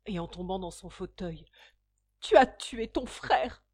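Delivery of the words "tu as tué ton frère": loud, slow accusing cry; anguished cry. A narrator's reading. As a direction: hurl it at her daughter in despair. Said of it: "s'écria madame Charpentier".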